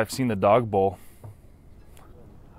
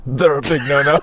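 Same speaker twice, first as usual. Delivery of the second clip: higher, louder no-no; loud punchline; 6 semitones higher, 6 dB louder than usual. Acted. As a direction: belt out They're a big no-no. Punchline redone.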